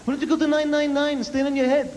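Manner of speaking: high, exasperated ranting dad; a hammed-up neurotic New York dad; imitating neurotic dad. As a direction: play the frantic father yelling at the clerk. Dad ranting at front desk.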